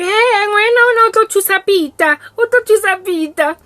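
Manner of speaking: high, loud cooing mother; mother picks the girl for her son Peter, high and loud; gushing matchmaker mom. Retold or imitated. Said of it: "More thing is like".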